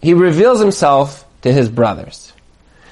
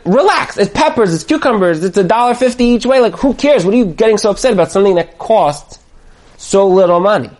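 higher-pitched, exasperated brush-off; dismissive husband; 4 semitones higher than usual. Acted. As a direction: protest that it is no big deal. Husband dismisses wife's upset.

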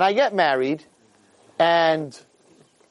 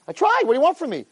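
mock pleading; 12 semitones higher than usual. Mock excuse to father.

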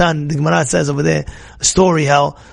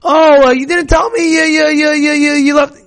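mock angry parent shouting at a child; 8 semitones higher than usual. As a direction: blow up over the dropped thing. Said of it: "You be makpid".

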